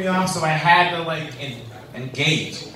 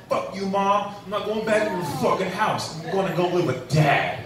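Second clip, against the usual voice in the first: put-on cussing kid; 5 semitones higher than usual. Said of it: "cusses his mom out".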